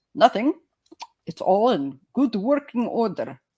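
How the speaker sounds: bad, weak attempt at a Scottish accent. Telling the punchline of a kilt joke: bad scottish accent. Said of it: "I can't do the Scottish accent so well".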